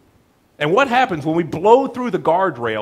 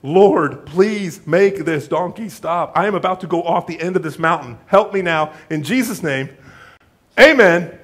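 frantic rider praying on a runaway donkey; desperate prayer; 5 dB louder than usual. Retold or imitated. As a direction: beg God as the cliff nears. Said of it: "he starts praying".

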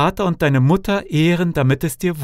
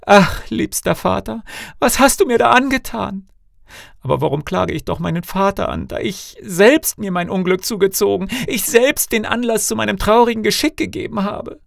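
high, loud cry of despair; anguished wailing lament; 11 semitones higher, 4 dB louder than usual. A narrator's reading. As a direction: lament your fate in a much higher voice. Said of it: "rang die Hände und rief aus".

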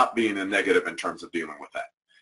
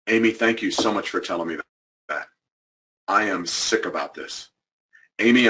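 sincere apology; 3 semitones lower than usual. Shown as a demonstration. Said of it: "Both of them have sincere".

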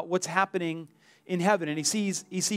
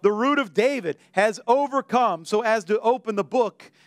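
stern elder. Retold or imitated. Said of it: "So the elder said".

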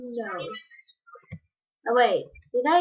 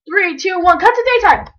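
rising, louder countdown; playful countdown; 5 semitones higher, 7 dB louder than usual. Pretend. Kid pretends to cast time magic, excited countdown. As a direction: announce the scene cut like magic. Announcing a magic scene cut.

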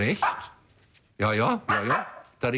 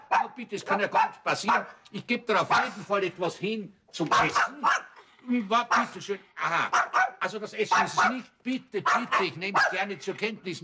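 higher, coaxing voice for the dog; talking to a dog; 5 semitones higher than usual. Acted. Man coaxing the dog Rigoletto, higher sweet-talking voice. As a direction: sweet-talk the pet to win it over.

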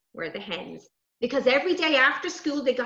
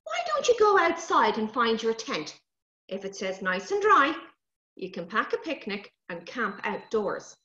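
mammy's voice. Acted. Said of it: "says Mammy".

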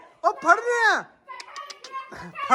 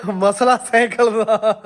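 slow, laughing through the words; much slower than usual. Real, not acted. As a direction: chuckle it out slowly. Joking about the cycle bet. (ਹੱਸਦੇ ਹੋਏ ਹੌਲੀ ਹੌਲੀ)

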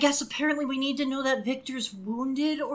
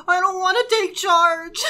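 high, louder whiny soldier voice; mock whimpering soldier; 9 semitones higher, 4 dB louder than usual. Victor crumpled on the ground refusing command, hammed-up whine. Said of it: "he goes".

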